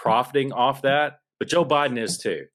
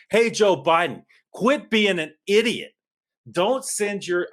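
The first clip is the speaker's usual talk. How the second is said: getting loud; 6 semitones higher, slower than usual. Real, not acted. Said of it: "I know I'm getting loud".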